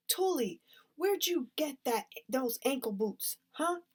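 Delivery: put-on high, nosy kid's voice; pry about the new boots; curious kid. A narrator's reading. Kid questions Tully.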